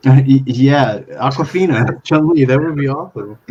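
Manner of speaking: loud, laughing, high excitement; laughing excitedly. Real, not acted. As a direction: laugh through the words. Excited laugh at casting idea.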